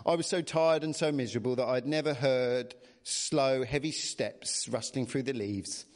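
measured bedtime-story reading; storybook narrator; story narration. A narrator's reading. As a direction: read the tale aloud expressively. Reads the story aloud.

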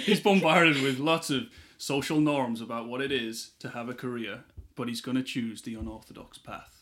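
half-hearted American trailer voice, breaking into laughter; laughing trailer voice. Pretend. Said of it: "The American accent as well".

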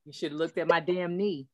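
low, wry told-you-so; a friend's deadpan I-told-you-so; mock scolding. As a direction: scold him for ignoring the knee. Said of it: "that's what I'd have said".

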